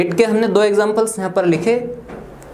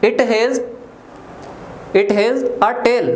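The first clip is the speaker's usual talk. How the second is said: drawn out with tail stressed; very slow, tail stressed; much slower than usual. Shown as a demonstration. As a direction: say it word by word, land on tail. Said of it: "तो मैं ऐसा बोल सकता हूँ". (बहुत धीमे, tail पर ज़ोर)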